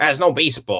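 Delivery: put-on American accent. Picturing disappointed American visitors at a card show: American accent impression. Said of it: "That's a good impression of an American".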